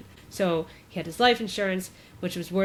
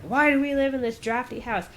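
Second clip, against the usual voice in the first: mock freak-out; 5 semitones higher than usual. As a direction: imitate a frazzled father venting. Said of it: "freaking out".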